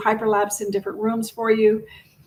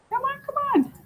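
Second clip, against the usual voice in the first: coaxing; faster than usual. Real, not acted. Urging the stuck video to play.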